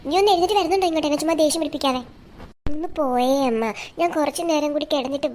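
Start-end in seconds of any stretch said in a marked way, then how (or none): 0.1-2.0 scolding. Acted. Mother scolding her daughter to get out of bed. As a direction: rattle off the order crossly.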